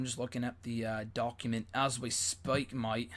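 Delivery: put-on awful British accent. Streamer jokingly slips into a bad British accent. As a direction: toss in a lazy British accent on mate. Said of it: "that was an awful accent".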